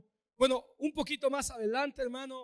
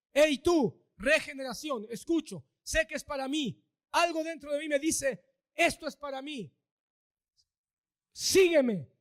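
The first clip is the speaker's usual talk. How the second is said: louder call, rising on "sígueme"; 4 dB louder than usual. Acted. The Lord's call heard by a sinner, loud call. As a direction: summon the listener personally. Acted inner call to follow.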